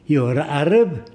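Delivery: put-on slow, lightly Arab-accented question; Arab-accented English, slowed down; imitating Arab accent. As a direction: mimic the shopkeeper's Arab accent. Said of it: "I'm imitating his voice".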